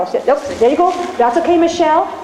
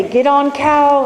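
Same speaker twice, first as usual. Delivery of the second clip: cowboy talk; 3 semitones higher, slower than usual. Shown as a demonstration. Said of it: "be the cowboy, some cowboy talk".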